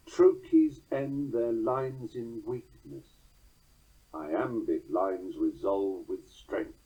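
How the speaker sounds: very slow, each beat weighed; slow, deliberate metric reading; stress demo. Shown as a demonstration. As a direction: let the first line fade, the second land firm. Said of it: "listen to the following two four-stress lines".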